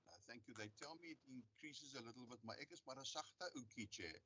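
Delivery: barely audible. Real, not acted. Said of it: "your voice is very faint".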